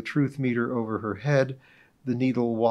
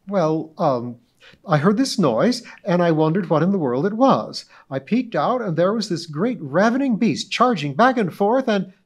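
high, loud, grandly self-important society lady; pompous witness; 7 semitones higher, 7 dB louder than usual. Acted. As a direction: orate as if giving a club speech. Mrs Donahue excited testimony.

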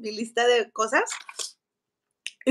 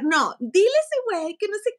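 mocking her brother, higher pitched; brother's voice; 6 semitones higher than usual. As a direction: imitate the bossy brother lightly. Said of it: "Y me decía Oscar". (imitando a Oscar, mandón y burlón)

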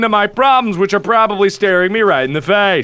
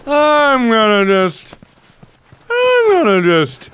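mock despair. Player who wasted time and ammo, mock-despairing whine. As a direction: stretch it into a hammed-up whine.

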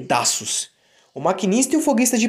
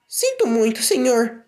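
Percy arrependido; 4 semitones higher, slower than usual. Acted. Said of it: "respondeu Percy".

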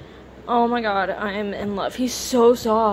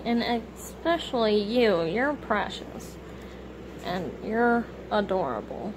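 tender; 4 dB quieter than usual. Real, not acted. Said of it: "I don't know why I was talking like that".

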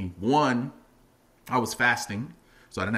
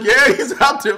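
amused answer; 13 semitones higher, 13 dB louder than usual. Retold or imitated. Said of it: "And it's like".

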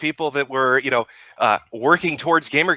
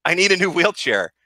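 mocking beggar; 3 semitones higher than usual. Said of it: "on a fucking hashtag saying".

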